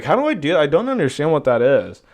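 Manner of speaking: faux-innocent, feigning confusion to the teacher; mock confusion. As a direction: play dumb with a sweet, puzzled tone. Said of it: "act confused every time".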